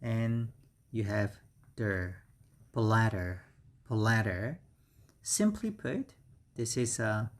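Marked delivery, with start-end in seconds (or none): 1.8-2.2 "der" sounded out alone; teacher demonstrating "der" by itself; syllable breakdown. Shown as a demonstration. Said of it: "pronunciation is". 2.7-4.6 "bladder" with a strong first syllable; teacher's clear BLA-der for "bladder"; stress on BLA. Shown as a demonstration. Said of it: "The stress is on the first syllable".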